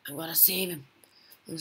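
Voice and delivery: hushed determined whisper. Real, not acted. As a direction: whisper it under your breath. Sneaking near the beast.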